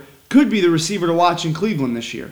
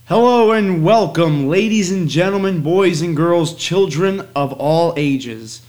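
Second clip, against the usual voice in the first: ringmaster. Acted. Circus-style opening greeting.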